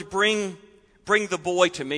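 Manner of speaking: gentle, tender call; compassionate. Acted. Jesus tenderly asking for the boy, compassionate. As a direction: invite the child kindly. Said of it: "hear the compassion of Jesus in the words".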